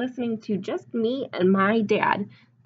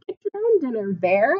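playful scolding; 3 semitones higher, 3 dB louder than usual. Pretend. Scolding the bear for kids.

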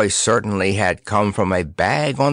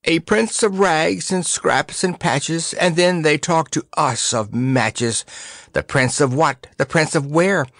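feeling murmur; 7 semitones higher than usual. Acted. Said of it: "murmured feelingly".

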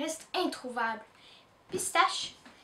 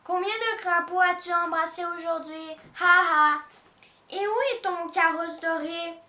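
mocking; 4 semitones higher, 3 dB louder than usual. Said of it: "se moque Doudou".

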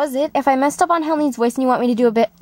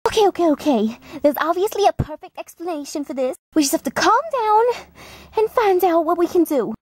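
higher panicked voice; 5 semitones higher than usual. Acted. Character panics, tries calming.

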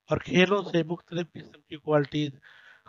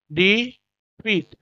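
slow careful model; 4 semitones higher, much slower than usual. Shown as a demonstration. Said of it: "डी फी".

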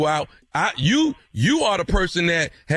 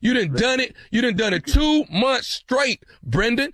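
raised-pitch mock outrage, pressing the accusation; heated accusation; 6 semitones higher than usual. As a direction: hammer the blame home in a higher, heated voice. Prank caller escalating parking argument.

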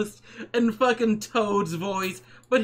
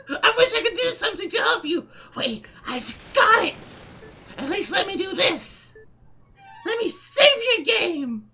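Toad voice. Acted. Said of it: "say that post in fucking Toad's voice".

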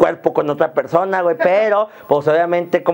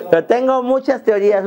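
ordinary delivery

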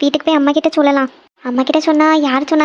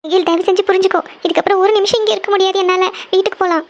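upset and tearful; 3 semitones higher than usual. Acted. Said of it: "எதுக்கு அழுதுட்டு இருக்கீங்க?".

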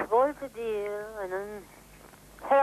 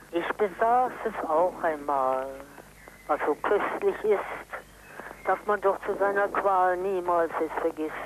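poem recital; 3 dB louder than usual. Real, not acted. Reciting Goethe poem on phone.

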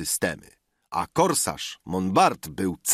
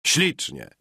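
a higher, pleased "Ślicznie"; exclamation; 7 semitones higher than usual. A narrator's reading. Notary exclaims at the table, mildly delighted. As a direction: toss out the praise lightly. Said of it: "wykrzyknął Cardot".

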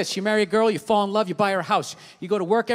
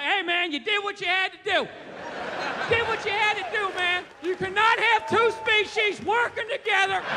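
higher-pitched Southern redneck character; 5 semitones higher, 3 dB quieter than usual. Acted. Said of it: "a racist Southern accent is a classic Bill Burr bit".

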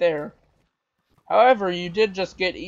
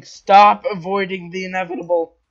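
annoyed yell; 6 dB louder than usual. Real, not acted. Annoyed at evasive opponent.

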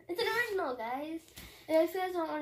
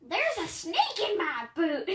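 put-on country accent; 3 semitones higher, 4 dB louder than usual. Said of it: "I tried to get, like, a country accent".

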